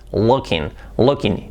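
looking said as lokin, Spanish o, no ng; wrong pronunciation. Shown as a demonstration. Teacher shows the wrong way to say looking. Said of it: "no se puede decir looking".

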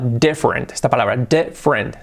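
"different" as DIF-rent; compressed English "different"; two syllables. Shown as a demonstration. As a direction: model "different" without middle vowel. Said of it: "dos sílabas".

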